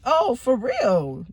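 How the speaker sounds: slow, crying "Oh, for real?"; hurt, slow and teary; tearful disbelief. Retold or imitated. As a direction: drag it out through tears. Learning of the cheating.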